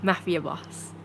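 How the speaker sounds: lightly hammed-up greedy mob boss; greedy mafia boss. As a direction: play at a gloating boss, drawing out words.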